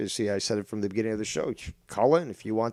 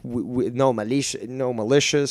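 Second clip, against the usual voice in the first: mock Latino accent. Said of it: "Latino talk there".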